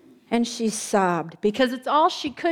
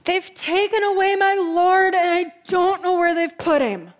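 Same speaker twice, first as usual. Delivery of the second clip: higher, louder, anguished complaint; grieving lament; 5 semitones higher, 4 dB louder than usual. Acted. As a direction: pour out the loss, close to tears. Mary weeping at the tomb.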